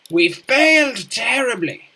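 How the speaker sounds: dramatic despair. Real, not acted. Lamenting failure in game.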